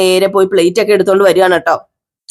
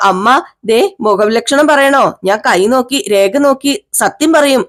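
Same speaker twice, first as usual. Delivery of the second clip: slow, higher singsong fortune teller call; 3 semitones higher, slower than usual. Acted. Palm reader calling to the housewife, slow and singsong. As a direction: drag the words out like a street palm reader. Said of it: "ഈ കാക്കാത്തി വരുന്നത്".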